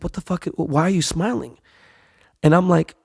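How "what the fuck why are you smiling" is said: softer, higher imitation of wife; hushed disbelief. Wife sees husband calm during a scare, hushed and puzzled. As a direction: retell a puzzled question under your breath.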